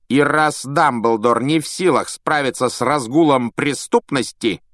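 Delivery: measured superior statement; Malfoy cold. A narrator's reading. Malfoy to Fudge, cold pointed statement. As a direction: press the point coldly.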